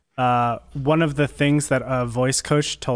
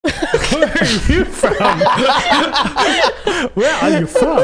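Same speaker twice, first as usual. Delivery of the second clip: put-on higher, slow accented question broken by laughter; accented mother voice, laughing through it; mock Asian accent, laughing; 11 semitones higher, 4 dB louder than usual. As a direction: ask it in his mom's accent while cracking up. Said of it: "So I do my Asian accent".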